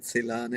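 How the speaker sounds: Celan as "seh-LAHN", full first vowel; looked-up pronunciation. Shown as a demonstration. Collector reporting what Google said, Celan pronounced "seh-LAHN". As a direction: say Celan with an "eh", not an "uh". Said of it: "Google said you pronounce it".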